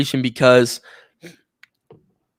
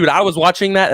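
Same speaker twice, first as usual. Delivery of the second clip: ordinary talk, nothing marked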